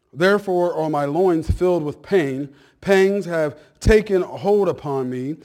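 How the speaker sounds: loud, measured Bible reading; scripture reading. Real, not acted. Pastor reading verse three to church, loud measured preaching.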